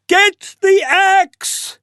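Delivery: high, loud, slow urgent call; urgent yell. Acted. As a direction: shout the order to mother. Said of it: "yelled Jack to his mother".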